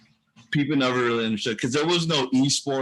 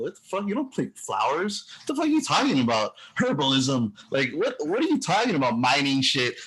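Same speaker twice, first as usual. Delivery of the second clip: mocking non-gamers; 3 semitones higher than usual. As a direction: play the baffled outsider who scoffs at the gamer. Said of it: "they're, like, looking at you".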